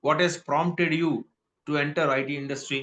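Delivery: slow, careful teacher model; slow model reading. Shown as a demonstration. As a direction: read it slowly for students to copy. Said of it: "teacher model line". (నెమ్మదిగా స్పష్టంగా)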